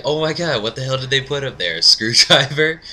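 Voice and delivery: mildly hammed-up disbelief; shocked reaction. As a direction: react aghast, retelling it. Shocked reply to the tweet.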